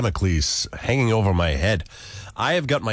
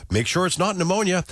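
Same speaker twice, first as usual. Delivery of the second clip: mother; 8 semitones higher than usual. Retold or imitated. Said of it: "my mother's like".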